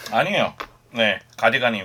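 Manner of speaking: brusque, blunt, curt, short-spoken delivery. Answering whether the outfit is hanbok style: blunt curt tone. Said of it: "너무 퉁명스럽게 얘기해서".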